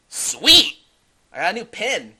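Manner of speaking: put-on high, thrilled kid voice; loud, high burst of glee; excited kid. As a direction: squeal with delight at a prize. Voices Billy catching the pin.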